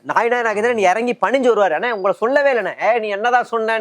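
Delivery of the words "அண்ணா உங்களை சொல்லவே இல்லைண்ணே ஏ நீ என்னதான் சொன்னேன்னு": high-pitched mock yell of protest; mock shouting. Party leader protesting to his ally, mock shouting. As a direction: act out a man yelling back, pitched up. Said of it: "இவர் கத்துவார்".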